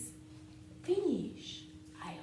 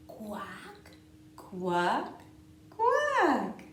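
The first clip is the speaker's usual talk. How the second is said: duck quacking; 2 semitones higher, 9 dB louder, much slower than usual. Pretend. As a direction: quack like a playful duckling. Duck refrain.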